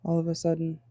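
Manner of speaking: breathless, catching breath. Real, not acted. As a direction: speak short of air. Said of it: "I feel, like, out of breath".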